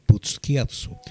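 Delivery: Busquiazzo as boos-KYAT-so; careful name pronunciation. Shown as a demonstration. Host showing how a surname is pronounced, careful demo. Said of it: "que es la manera de pronunciar".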